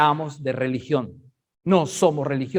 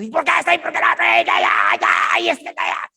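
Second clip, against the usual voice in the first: high shouted mock scolding; mock yelling mom; 10 semitones higher, 4 dB louder than usual. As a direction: bark at the kids like an angry mother. Mocking mom yelling at kids. (mamá gritona imitada, fuerte)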